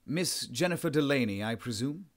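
put-on a courteous English gentleman in a Southern English accent. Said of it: "The voice had an accent that was pure Southern England".

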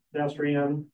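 ordinary talk

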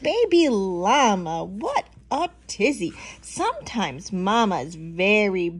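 stern mama. Acted. Mama llama scolds her fussing baby, firmly. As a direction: chide the little one emphatically. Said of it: "Mama looks angry".

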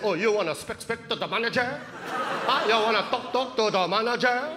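exaggerated, stuttering fake Filipino accent; mocking Filipino accent. Salesman making fun of mom, crude mocking Filipino accent. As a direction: jeer by parroting a Filipino accent. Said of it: "the guy started making fun of my mom's accent".

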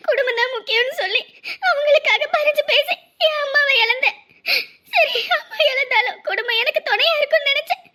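tearful, breaking voice that pours out grief; crying. Acted. Woman pouring out her grief to her friend, crying. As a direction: sob through the words, voice cracking. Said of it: "இப்படிலாம் அழக்கூடாது".

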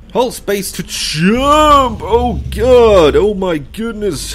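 high, loud, panicky yell; panicked shout. Real, not acted.

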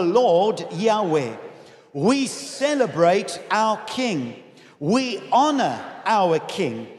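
slow declaration with pauses between phrases; leading group confession. Real, not acted. Preacher leads the church in confessing their king, reciting. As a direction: declare it phrase by phrase for all to follow.

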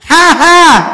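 high, loud ha ha to set the beat; leading laugh. Shown as a demonstration. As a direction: laugh out for the crowd to follow. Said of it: "phải ba nhịp đều nghe".

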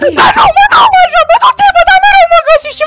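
yelling back in protest; caught protest. Real, not acted.

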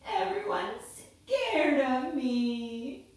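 slow mock-tearful whine; crying snake. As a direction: drag it out like a sad little snake. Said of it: "A snake who was crying".

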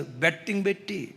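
dropped, soft aside; quiet first mention. Real, not acted. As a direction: say it low, almost to yourself. Betting repeated, quiet then loud.

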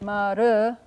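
"Maru" with one quick Spanish-style R tap; single tapped R. Shown as a demonstration. Lecturer demonstrating a Comanche greeting's sound, single tapped R. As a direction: tap the R in "Maru" once, untrilled. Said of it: "like the single non-trilled R of Spanish".

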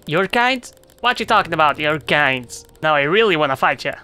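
hammed-up insulted spider; offended spider. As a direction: take offence like a touchy bug.

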